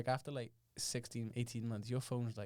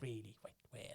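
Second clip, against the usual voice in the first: put-on Welsh accent; 2 semitones lower, 11 dB quieter than usual. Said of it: "patronizing Welsh accent".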